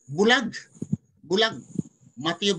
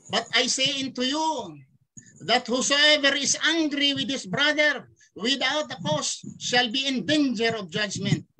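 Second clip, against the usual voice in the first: scripture reading; 3 semitones higher than usual. Acted. Reads scripture aloud slowly.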